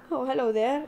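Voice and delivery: lightly voiced toy greeting in English; a hint of a cute talking bear; mock teddy voice. Retelling what the teddy says to chat, lightly voiced.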